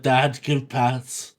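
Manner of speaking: slow, needy cat voice; a lightly voiced pet begging, drawn out; mock cat pleading slowly for pats; voicing the cat. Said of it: "He's like".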